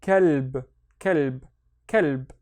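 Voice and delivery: KALB as a single clear syllable, repeated; teacher's repeated demo of "kalb"; one syllable. Shown as a demonstration. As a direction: model "kalb" in one beat, pausing between repeats. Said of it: "whole word would be one syllable".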